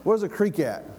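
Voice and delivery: put-on lightly Southern country-boy voice; easygoing Southern accent. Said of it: "That sounds like a southern boy".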